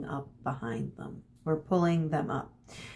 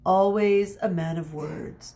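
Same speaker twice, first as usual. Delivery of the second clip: dry mutter; 4 dB louder than usual. Acted. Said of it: "muttered Medea".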